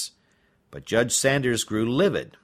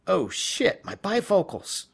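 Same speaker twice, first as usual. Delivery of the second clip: high fussy grumble; a fussy old man annoyed; muttered complaint; 8 semitones higher than usual. Acted. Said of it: "she heard him mutter".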